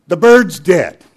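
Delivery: loud, high outburst; retold shout. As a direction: blurt it out like an upset customer. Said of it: "he shouts".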